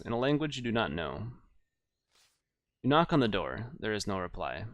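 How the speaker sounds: measured gamebook narration; story narration. Acted. Narrator describing a strange hillock to the player, story narration. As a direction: read the adventure out as storyteller.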